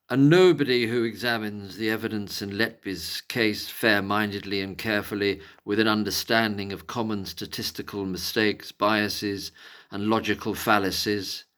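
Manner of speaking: lightly put-on posh English accent. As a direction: read the quote out in a posh voice. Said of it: "I'll do it in a posh voice".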